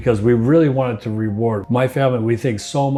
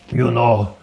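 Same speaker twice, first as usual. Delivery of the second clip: put-on Italian accent. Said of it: "this Italian accent, very thick".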